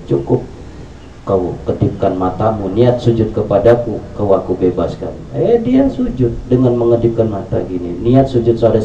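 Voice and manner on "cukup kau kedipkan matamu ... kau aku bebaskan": lower, softer coaxing devil; sly devil. Acted. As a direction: coax him softly, lower. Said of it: "setan dialogue".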